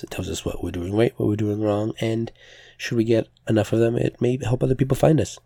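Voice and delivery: slightly strained, tired voice. Real, not acted. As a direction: talk through a strained voice. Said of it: "thank you for putting up with my slightly strained voice".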